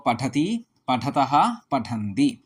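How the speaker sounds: slow, deliberate chanting of verb forms; slow recitation. Shown as a demonstration. Teacher reciting Sanskrit verb forms to students, slowly. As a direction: lay out each ending slowly.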